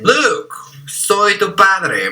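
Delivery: lightly acted movie villain line, slow; a hint of a solemn film reveal, drawn out; Darth Vader. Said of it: "todos recuerdan que Darth Vader".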